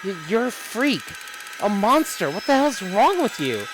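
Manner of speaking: accusing voice, rising fury; mock angry accusation. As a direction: hurl the insults at him. Reading an enraged game character.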